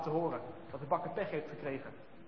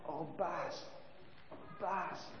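much softer, faint and frozen; a tiny weak child's voice, almost gone; weak little voice; 10 dB quieter, much slower than usual. Acted. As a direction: barely get the words out, half frozen. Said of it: "een heel zacht stemmetje".

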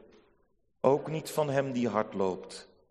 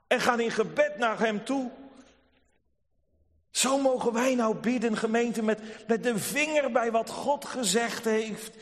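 fervent preaching; 9 semitones higher than usual. Acted. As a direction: preach it out with full force to the congregation. Preek op volle kracht. (vurig preken met verheven stem)

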